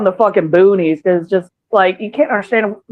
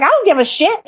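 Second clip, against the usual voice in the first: imitating Kay; 12 semitones higher than usual. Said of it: "Kay's like".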